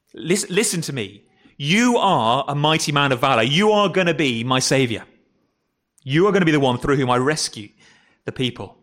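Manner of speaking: lightly voiced God insisting to a doubter; earnest divine address. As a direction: press each declaration home deliberately.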